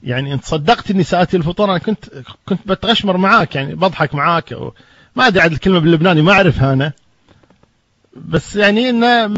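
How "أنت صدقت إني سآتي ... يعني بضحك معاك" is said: lightly done Lebanese dialect, a bit higher. Retold or imitated. Sheikh teases the host about dinner, light Lebanese dialect. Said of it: "باللهجة اللبنانية".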